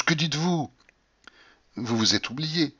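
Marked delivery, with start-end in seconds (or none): 0.0-0.7 raised-pitch exclamation; indignant cry. A narrator's reading. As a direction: cry out the question in protest. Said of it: "m'écriai-je".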